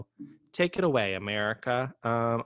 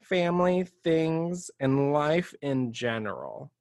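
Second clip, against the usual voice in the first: reading with exclamation; 4 semitones higher, 3 dB louder, slower than usual. Shown as a demonstration. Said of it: "And this one says".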